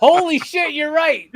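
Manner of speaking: mock amazed outburst at a comment; retold surprise. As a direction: blurt it out like it just hit you. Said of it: "I was like".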